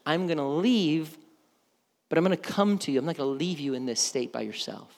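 hushed, tender promise in a retold quote; quiet reassurance. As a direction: reassure worried followers gently. Jesus reassuring his worried disciples.

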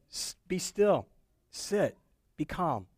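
slow, steady dog-trainer commands; calm dog trainer. Retold or imitated. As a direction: soothe the storm like a naughty puppy, slowly. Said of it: "like he's Cesar Millan, the storm whisperer".

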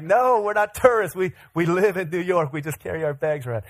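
mock-indignant retort, settling as it goes; indignant protest. New Yorkers correcting a street tour seller, indignant protest. Indignant reply to mistaken tourist pitch.

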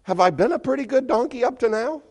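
high, fast, pleading donkey voice; high and quick, appealing to his master; talking donkey. Acted. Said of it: "and he says".

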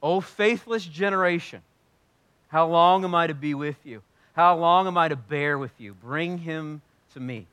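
stern rebuke, slowing on the last line; Jesus rebuking a faithless crowd, stern; mean, exasperated Jesus. Retold or imitated. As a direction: let the frustration show. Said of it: "It's gonna sound mean".

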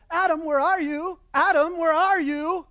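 a mild call across the garden; casual call. Retold or imitated. God strolling the garden, lightly calling for Adam. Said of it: "God walking through the garden and go".

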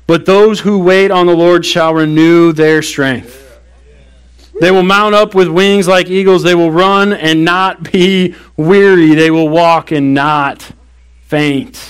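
slow, solemn reading of the verse; scripture reading. Acted. Pastor reading Isaiah forty to the congregation, slow and solemn. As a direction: read it slowly, like holy words.

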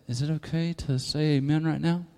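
soft, hesitant question to a neighbor; timid aside. Acted. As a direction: ask it quietly, as if needing permission. Timidly asking a neighbor permission.

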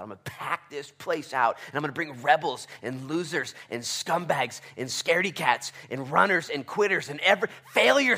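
from plain to high and loud; building proclamation. Acted. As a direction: climb up to a shout. God's promise rising in sermon.

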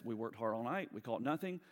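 polite. Retold or imitated. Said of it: "in a very polite way".

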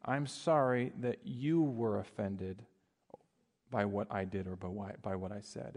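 insincere, dismissive apology voice; fake apology. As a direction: say sorry without meaning it. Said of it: "It goes something like this".

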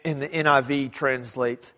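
usual speaking voice

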